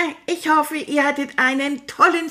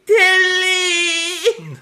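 lauter Ruf; 8 semitones higher, 3 dB louder than usual. Acted. Ruft nach Tilly.

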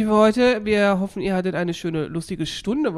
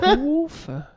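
laughing; 8 semitones higher than usual. Real, not acted. Repeating funny word with laugh.

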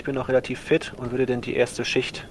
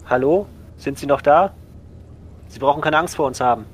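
calling through a door. Acted.

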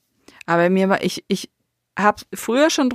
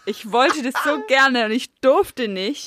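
laughing; 5 semitones higher, slower than usual. Real, not acted. Laughs while telling childhood wish.

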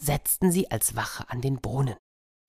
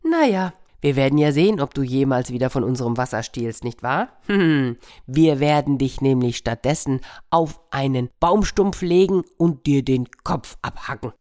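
louder mocking animal voice; gloating animals; 4 dB louder than usual. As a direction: gloat over the captured hare. Animals gloat over hare.

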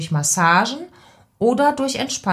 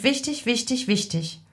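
leise Betonung; 4 semitones higher, 5 dB quieter than usual. Acted. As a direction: drop to a soft, insistent aside. Insistent aside while giving voice tips. (leise und eindringlich wiederholt)

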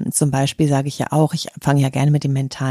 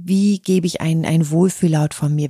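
ordinary talk, nothing marked

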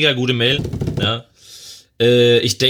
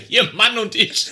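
higher, laughing repeat; amused high-pitched repeat; 10 semitones higher than usual. Real, not acted. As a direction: relish the odd phrasing, giggling.

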